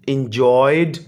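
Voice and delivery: एंजॉयड closing on a clear "d"; ending pronounced d. Shown as a demonstration. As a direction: finish एंजॉयड on "d", no extra syllable. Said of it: "ये भी डी पे ख़त्म होता है". (एंजॉयड के आख़िर में साफ़ "ड")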